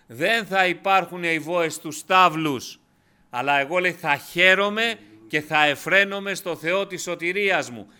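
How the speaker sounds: αργά, δυνατά, με πάθος; ανάγνωση σαν κραυγή πίστης; δυνατό κήρυγμα. Acted. Preacher at full force. (κήρυγμα με έξαρση, πιο δυνατά)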